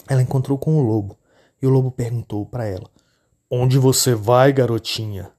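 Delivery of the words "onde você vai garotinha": a lightly voiced wolf, slow and sly; wolf luring the little girl, coaxing; big bad wolf. Lobo fala com a menina. (lobo astuto, voz lenta)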